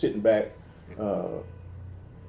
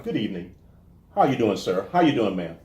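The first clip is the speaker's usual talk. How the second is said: sterile greeting. Retold or imitated. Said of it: "they're a little bit more, uh, sterile out here".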